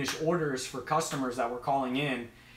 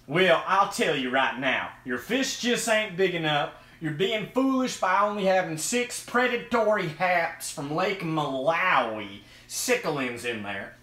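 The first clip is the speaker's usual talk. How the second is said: mock know-it-all commenter. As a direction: play a folksy fish-tank critic. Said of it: "I get a lot of comments".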